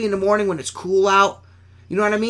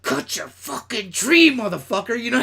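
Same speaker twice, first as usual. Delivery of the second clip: higher, cartoonish cussing grumble; Yosemite Sam; 6 semitones higher than usual. Cleaner cussing at a customer's bush, a cartoon cowboy rant. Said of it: "like Yosemite Sam".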